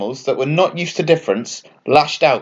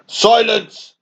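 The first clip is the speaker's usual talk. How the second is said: higher, commanding seagull shout; booming; 8 semitones higher than usual. Acted. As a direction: boom to silence the flock. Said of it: "the seagull boomed".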